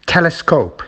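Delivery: Telescope with TEL stressed; TEL-escope, as a stress demo; stress on first syllable. Shown as a demonstration. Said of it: "it's at the beginning".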